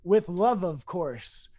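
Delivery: a hint of an all-knowing voice, settling down; voice of God. God answering how to live life, lightly imitated. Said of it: "it sounded like God".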